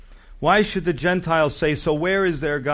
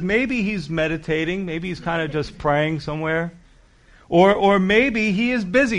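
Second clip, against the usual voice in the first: mocking; 3 semitones higher than usual. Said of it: "Elijah says".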